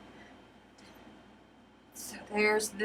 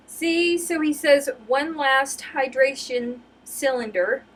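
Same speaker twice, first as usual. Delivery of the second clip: excited; 4 semitones higher, 5 dB louder than usual. Real, not acted. Excited retelling comic.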